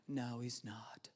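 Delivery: slow, soft whispered doubt; hushed, unvoiced taunt. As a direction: breathe it like a sneaky secret. Doubting inner voice.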